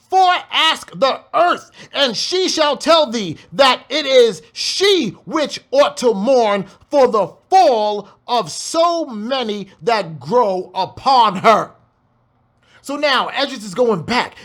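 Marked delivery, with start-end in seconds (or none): 0.1-11.7 slow, weighty reading; slow scripture reading. Shown as a demonstration. Preacher reading verse nine to the congregation, slow. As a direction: read it out slow and grave. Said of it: "Listen to this".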